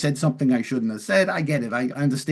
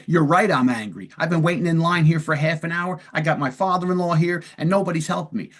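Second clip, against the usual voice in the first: mildly worked-up complaint, higher in pitch; angry complaint; 5 semitones higher than usual. Acted. Angry patient complains about waiting in line, mildly worked up. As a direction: vent like a fed-up customer kept waiting. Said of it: "and you're angry".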